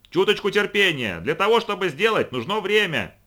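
high, loud shout. A narrator's reading. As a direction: yell patiently over the roar. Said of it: "оба они орали во всё горло".

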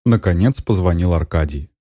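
usual speaking voice

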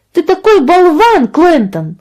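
put-on high, loud child's outburst; young sister snapping at her brother; angry girl. A narrator's reading. Angry sister shouting at her brother, high and loud. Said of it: "рассердилась Каролина".

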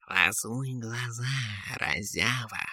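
grumpy cat. A narrator's reading. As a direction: grumble like a disturbed cat. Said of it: "зашипел в гневе кот".

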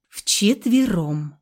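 very slow, firm single word; weighty, quiet. A narrator's reading. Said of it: "как веско, пусть и негромко".

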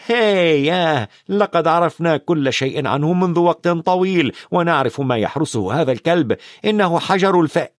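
put-on high-pitched eager boy; enthusiastic. A narrator's reading. Ron boasts to Hagrid about the stone, high and enthusiastic. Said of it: "قال رون بحماس".

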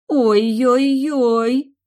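very slow, loud pitying ой-ой-ой; pitying sigh. A narrator's reading. Anna pitying her married friend, slow pitying. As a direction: breathe it out in sympathy. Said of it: "выдохнула Анна, жалостливо".

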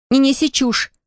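high, sharp near-shout. A narrator's reading. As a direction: cut him off almost yelling. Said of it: "Полина почти кричала". (почти крик, высоко и резко)

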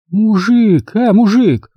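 high calling out to him; calling woman. A narrator's reading. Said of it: "вклинилась Валя".

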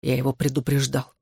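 ordinary delivery

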